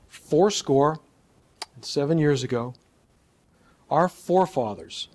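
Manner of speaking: FOURSCORE, SEVEN and FOREFATHERS stressed, with pauses between phrases; emphasizing words. Shown as a demonstration. Coach demonstrating conversationalizing on a famous speech, emphasizing "Fourscore", "seven", "forefathers". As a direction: punch "Fourscore", "seven" and "forefathers", pausing after each phrase. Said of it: "so I'm emphasizing words".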